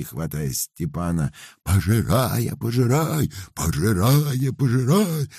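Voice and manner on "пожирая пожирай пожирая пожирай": loud chanted cry, rising higher each time; shouting. A narrator's reading. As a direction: cry it out like a holy fool. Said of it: "выкрикивал, крестясь".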